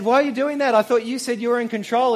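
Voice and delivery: loud, high-pitched retold challenge; indignant uncle. Uncle confronting nephew who broke the chip test, indignant.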